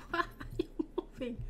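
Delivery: asked through a soft breathy laugh. Real, not acted. Player chuckling at a creepy moving object, laughing. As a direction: laugh it out, amused and a bit unnerved.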